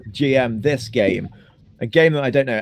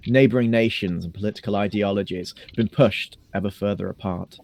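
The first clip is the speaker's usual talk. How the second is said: narrator voice. Shown as a demonstration. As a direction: set the scene like an epic prologue. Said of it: "Narrator voice".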